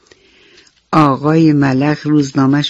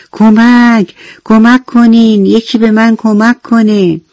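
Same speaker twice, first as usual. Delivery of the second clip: high, raised-voice acted shout; loud cry for help; 6 semitones higher, 5 dB louder, slower than usual. A narrator's reading. Trapped grasshopper shouting for anyone to help, loud acted cry. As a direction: shout for rescue in a children's story. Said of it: "با صدای بلند فریاد زد".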